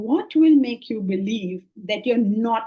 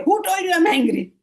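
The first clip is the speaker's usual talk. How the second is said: mock angry retort; 6 semitones higher than usual. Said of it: "He will get so angry with you and say".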